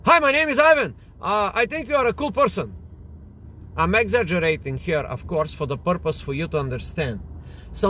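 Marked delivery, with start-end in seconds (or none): 0.0-2.7 overeager, hammed-up pickup line; exaggerated intensity. Shown as a demonstration. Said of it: "Intensity would be like this".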